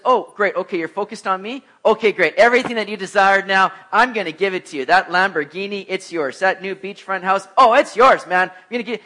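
a light impression of God as a prize host; mock generous God. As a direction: play a genie handing out prizes. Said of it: "the Lord says".

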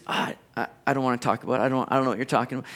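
quick, sheepish mumble, brushing it off; sheepish denial. Retold or imitated. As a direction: dodge the question, embarrassed and hurried. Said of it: "trying to sheepishly dis".

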